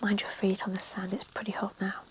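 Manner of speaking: whispered reading, every word unvoiced; ASMR whisper. Real, not acted. Author reading her novel to relaxing listeners, whispered throughout. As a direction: read the story in a hushed ASMR whisper.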